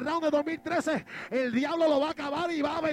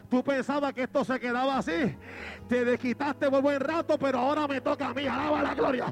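rising defiant boxer; 4 semitones higher than usual. Acted. Fallen boxer rising against his enemy, building triumphant cry. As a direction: climb the line to a shouted comeback. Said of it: "Y dice".

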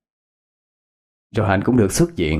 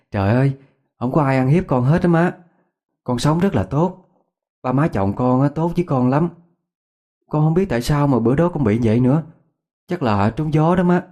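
higher, bright, laughing it off to her mother; laughing reassurance; 5 semitones higher than usual. A narrator's reading. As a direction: brush off the worry with a laugh. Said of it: "ôm tay bà cười lớn". (cười lớn trấn an mẹ, giọng cao)

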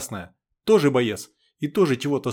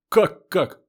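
surprised; 5 semitones higher, 5 dB louder than usual. Acted. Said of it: "удивлённо вскинула брови Лика".

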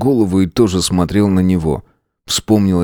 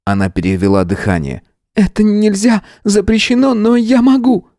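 witch's offer; 13 semitones higher than usual. A narrator's reading. Tanya resolutely offers to help.

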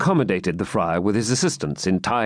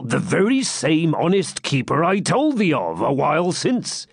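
lightly voiced hermit, pitched up; evasive hermit; 5 semitones higher than usual. Hermit stalling the knight about his friend, mildly evasive. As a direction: stall for time as a wily hermit.

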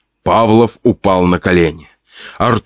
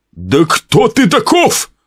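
very high, slow, horrified question; husband asking the killer who he is; terrified; 11 semitones higher, slower than usual. Acted. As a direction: ask it frozen with terror. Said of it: "голосом полным ужаса спросил Павлов".

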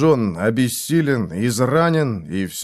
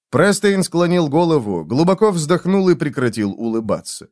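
plain reading voice

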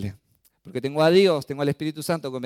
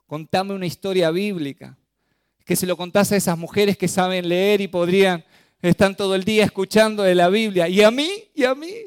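imitating crying child; 5 semitones higher, 6 dB louder than usual. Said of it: "pero llorando me dice".

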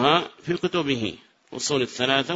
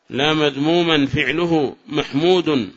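slow, even repeat; slow measured repeat; slower than usual. Shown as a demonstration. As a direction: say it slowly for students. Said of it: "repeats example slowly".

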